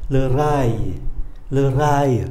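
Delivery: "le rail" repeated with a light final glide; light final sound. Shown as a demonstration. Teacher asks learners for a lighter ending, light final sound. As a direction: let the end of "rail" fall away gently. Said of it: "Đọc nhẹ đi một chút".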